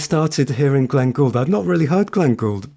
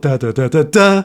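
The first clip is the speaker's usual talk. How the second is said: last da's louder and hard; really harsh; 3 dB louder than usual. Shown as a demonstration. Teacher showing the harsh way people play it. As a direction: bang them like shattering glass. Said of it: "it's really harsh".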